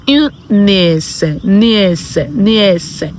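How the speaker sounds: "nièce" as "nyess"; French pronunciation. Shown as a demonstration. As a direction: say "une nièce" slowly, then repeat the noun. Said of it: "if you want to say my niece".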